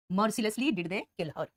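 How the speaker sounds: "mercilessly did they kill her" read very slowly; slow dictation. Shown as a demonstration. Teacher reading the inverted sentence slowly for notes. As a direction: dictate it word by word. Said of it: "did plus वी वन".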